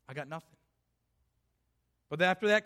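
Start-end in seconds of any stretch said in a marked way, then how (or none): 0.1-0.6 defeated murmur. Acted. Despairing thought voiced.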